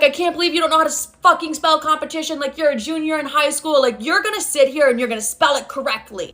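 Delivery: mock a parent laying down the law; scolding father. Retold angry scolding father.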